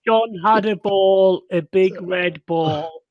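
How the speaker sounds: slow reading aloud. Pretend. Mock beginner reader.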